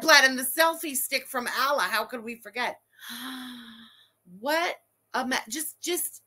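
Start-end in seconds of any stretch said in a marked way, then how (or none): 3.1-3.6 soft, breath-drawn gasp. Real, not acted. Streamer reacting to a couple's photo, soft gasp. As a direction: gasp quietly at what you see.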